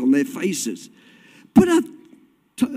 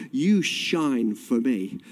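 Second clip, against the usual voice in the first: slow, sustained preaching cadence; declaimed scripture; 3 semitones higher than usual. Real, not acted. Preacher urging the church to shine, declaimed scripture. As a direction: declaim it steadily, swelling to a drawn-out hallelujah.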